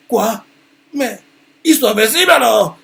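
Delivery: high, loud panicked cry; panicked yell of disbelief. Acted. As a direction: shout it like the enemy can't be beaten. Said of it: "il panique".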